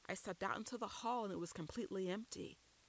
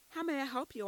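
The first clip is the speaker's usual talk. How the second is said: bright greeting; 8 semitones higher, 5 dB louder, faster than usual. A narrator's reading. Librarian greets stranger brightly.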